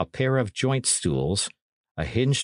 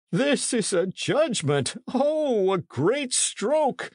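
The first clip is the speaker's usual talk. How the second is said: very high, slow wail of a stricken priest; acted high-pitched, drawn-out anguish; sobbing lament; slower than usual. A narrator's reading. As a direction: wail it slowly, pitched right up. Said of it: "he sobbed".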